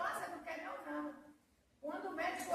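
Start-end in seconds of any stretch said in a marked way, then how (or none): 0.0-1.2 lightly voiced God asking, plain level; God gently asking the sister, said plainly; God's voice, plain. Testifier quoting God to the congregation, plainly. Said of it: "E aí Deus falou".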